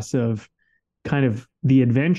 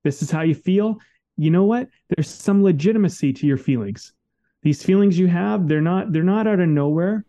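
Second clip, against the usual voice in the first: higher, gentle pep talk to himself; a light reassuring inner voice; reassuring self-talk; 4 semitones higher than usual. Retold or imitated. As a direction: coax yourself kindly through the feelings. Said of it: "and I was like".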